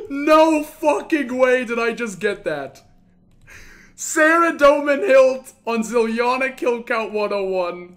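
amazed and shaken; stunned disbelief. Real, not acted. Disbelief at second drop.

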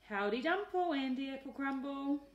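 loud, high hearty aunt's yell; yelled greeting. A narrator's reading. Aunt calling to Andy in the pig pen, loud high yell. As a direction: call out to him across the mud. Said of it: "she yelled".

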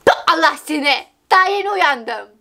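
acted-out mock scolding, slightly emphatic; imitation. Shown as a demonstration. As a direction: put on an imitated exclamation. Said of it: "Çok güzel yapmadım mı?".

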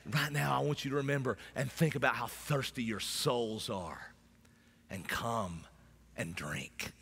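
soft, low call to come and drink; hushed invitation. Acted. Intimate altar call after shout.

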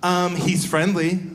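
slow, snotty Um, he's friendly with a drawn-out Um; snippy dog owner. Retold or imitated. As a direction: mimic the dog owner's snippy tone, Um held long. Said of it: "that's how he said it, just like that".

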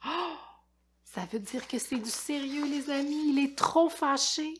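put-on expressive read-aloud for kids; lecture d'album. A narrator's reading. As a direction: tell it like a lively storyteller to children. Lit un album aux enfants. (lecture animée pour enfants)

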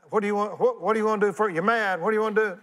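high, playful needling question; a touch of mock provocation; teasing challenge. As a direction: poke the crowd with a grin. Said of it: "don't look at me out there".

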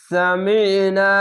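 সামিনা slowly, last vowel held long; drawn-out recitation. Shown as a demonstration. Teacher modelling the one-alif stretch, slow and drawn out. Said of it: "এক আলিফ টেনে পড়বেন".

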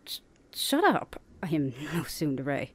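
stammering, embarrassed protest; flustered vampire snapping back at her teasing sister; flustered denial. Acted. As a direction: brush off the teasing, caught out. Teased, denies being tsundere.

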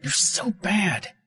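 slow, high, shouted accusation; slow high-pitched shout; angry shout. A narrator's reading. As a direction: yell it in his face. Minnie grabs his pajamas.

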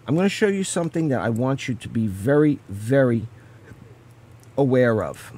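speaking through hiccups; hiccuping. Real, not acted. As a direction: talk while hiccuping. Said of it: "I don't know why I'm hiccuping".

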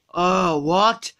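put-on low slurred drunk voice; sluggish, drunk and lazy; Homer Simpson. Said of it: "Look, Homer".

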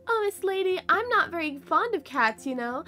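a hint of a fussy little rat; lightly voiced polite rat. Rat telling the lady about a black cat, lightly voiced.

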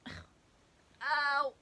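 squashed under a weight; talking while being squished; being squeezed hard. Real, not acted. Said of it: "you're squishing me".

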